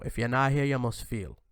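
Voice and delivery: light Jamaican patois saying; Jamaican accent. Retold or imitated. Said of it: "I'll say it in a Jamaican accent".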